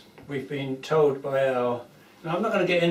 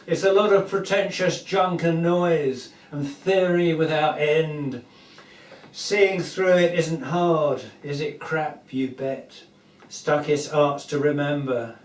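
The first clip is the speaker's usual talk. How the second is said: declaimed comic verse in a steady, measured beat; projected parody-poem reading, lines falling at the ends; poem recitation; 4 dB louder than usual. Acted. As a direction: recite it like spoken song lyrics, punching each line.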